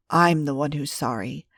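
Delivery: hoarse, remorseful apology; a hoarse, rough voice. Acted. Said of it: "His voice was hoarse".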